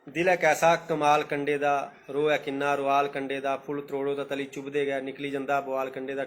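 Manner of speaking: slow, measured verse reading; poem recitation. Acted. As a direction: let each line of the verse land. (कविता पाठ, होलें होलें)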